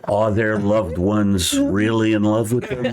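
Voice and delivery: lightly voiced epic trailer voice; road-trip self-narration done as mock trailer; mock dramatic narrator. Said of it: "doing this stream of consciousness".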